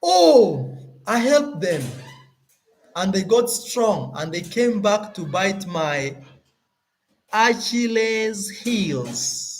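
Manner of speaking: high, dramatic lament ending slow on "Achilles heels"; a hammed-up complaint, high and drawn out; mock aggrieved saying. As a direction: act out the wronged helper, stretching "Achilles heels". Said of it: "we have a saying that says".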